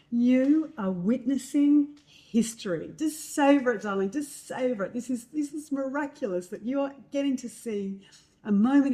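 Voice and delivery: awed pep talk from a mum to her daughter; imitating encouraging mother. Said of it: "she was, like, very much encouraging".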